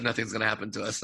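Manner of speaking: ominous quiet. Retold or imitated. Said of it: "until you said".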